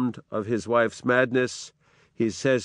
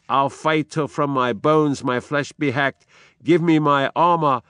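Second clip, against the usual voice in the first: louder defiant command; defiant call; 4 semitones higher, 4 dB louder than usual. Acted. Macbeth calling for his armor before battle, defiant. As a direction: demand the armor.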